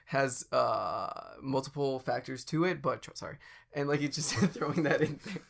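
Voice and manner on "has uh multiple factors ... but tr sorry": apologizing businessman. Pretend. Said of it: "continually apologizing".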